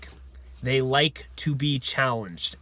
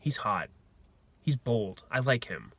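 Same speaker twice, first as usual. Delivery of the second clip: lightly voiced, softer swooning girl; a hint of a girl swooning over him; imitating a smitten girl, softer; 4 semitones lower, 6 dB quieter than usual. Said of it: "She's gonna be like".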